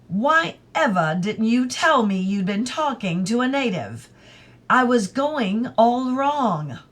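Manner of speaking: hammed-up flustered outburst; mild cry. Young man recoiling at the word native, mildly exclaiming. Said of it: "he cried".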